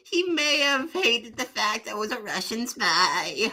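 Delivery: put-on old lady. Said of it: "there's an old lady in here".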